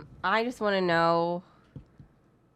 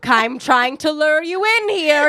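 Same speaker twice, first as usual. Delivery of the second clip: louder, higher, creepy lure; creepy stalker voice; 9 semitones higher, 9 dB louder than usual. Pretend. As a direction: coax them toward the lake, menacing. Creepy stalker message acted out.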